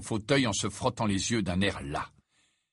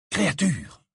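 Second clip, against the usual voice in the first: higher-pitched sharp call; exclaimed summons; 7 semitones higher, 3 dB louder than usual. A narrator's reading. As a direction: call out the servant's name. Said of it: "et Harry s'exclama".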